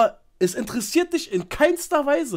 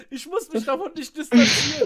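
mocking laugh; 5 semitones higher, 5 dB louder than usual. Mocking her words, laughing.

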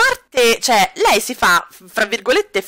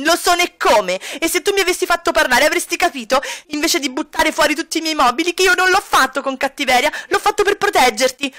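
Kami's voice; 6 semitones higher than usual. Acted. Kami defending herself.

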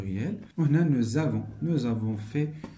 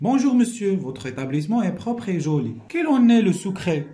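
lightly acted interviewer, higher pitched; journalist interviewing; 5 semitones higher, 5 dB louder than usual. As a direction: read it as a journalist's question, pitched up on greeting and question. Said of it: "وهنايا جورناليست". (بنبرة صحافي كيدير حوار)

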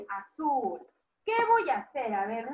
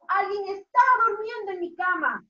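higher, mild mock yell; shouting little bear; 4 semitones higher, 3 dB louder than usual. Teacher voices osito finding someone in his bed, mock yell. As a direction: cry it out in pretend alarm. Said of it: "Gritó el oso".

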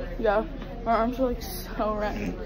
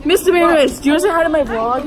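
laughing; 7 semitones higher, faster than usual. Real, not acted. Giggling invite to teacher.

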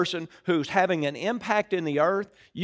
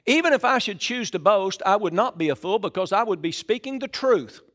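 raised, emphatic Bible reading; preacher declaiming a verse; scripture reading; 3 semitones higher than usual. Acted. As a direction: read the verse out to a congregation. Reads scripture aloud to congregation.

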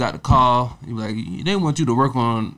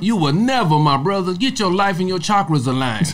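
mock spiritual guru; 5 semitones higher than usual. Joins guru parody.

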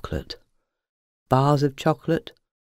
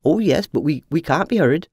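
clucking hen. Acted. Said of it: "they clucked".

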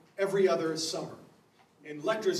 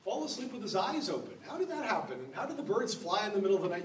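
higher, laughing, mock-baffled questions; mock puzzled reader; 3 semitones higher than usual. Lecturer mocking literal readers of Tobit, high amused bafflement. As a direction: play the confused literal reader, half laughing. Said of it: "you're gonna get lost in".

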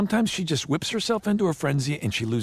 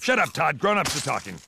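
louder, higher dismissive snap; irritated rebuke; 4 semitones higher, 4 dB louder than usual. Acted. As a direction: shut someone down impatiently. Snapping at Todd to be quiet.

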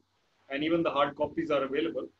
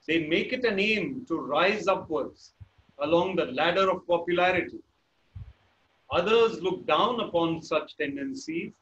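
slightly slowed read-aloud voice; reading from a book. Shown as a demonstration. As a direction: read it out like a page of text. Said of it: "then I read like this".

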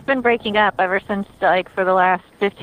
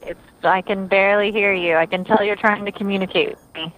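robot voice. Real, not acted. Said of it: "you're a little robot voicey on me right now".

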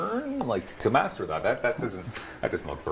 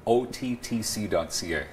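slow, deliberate letter by letter; slow and clear; 3 semitones lower than usual. Real, not acted. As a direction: spell out the web address slowly. Spelling out the website slowly.

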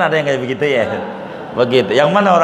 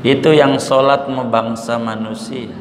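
lightly voiced mother cow, gentle and pitched down; 5 semitones lower than usual. Mother cow telling her calf cows don't pray, mildly gentle. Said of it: "tapi halus".

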